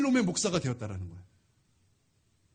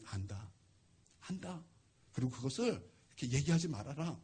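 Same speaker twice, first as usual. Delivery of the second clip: soft, low pastor's reassurance; hushed, forgiving retold voice; quiet forgiveness; 6 semitones lower, 5 dB quieter than usual. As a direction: speak softly, gently letting the child off. Pastor forgives the confessing child.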